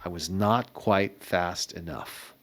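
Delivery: hushed, low-volume retold exchange; retold whispering. Founder retelling the bankers' office as markets crashed, hushed. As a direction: drop to a near whisper, fading on the curse. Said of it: "in and out of the room whispering".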